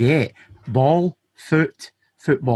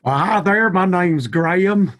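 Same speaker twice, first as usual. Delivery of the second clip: slow, high mock-spooky greeting; spooky fright voice; 5 semitones higher, slower than usual. Guest greets host Jeremy to give him a fright, mock-spooky slow voice. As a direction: drag it out high to spook your pal. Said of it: "give my pal Jeremy here a little bit of a fright".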